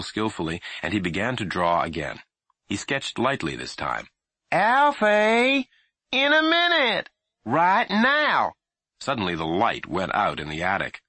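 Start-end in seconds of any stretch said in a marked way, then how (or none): 4.5-8.5 loud high exasperated yell; mother's patience snapping; impatient yelling. A narrator's reading. Mother fed up with her son stalling, yelling.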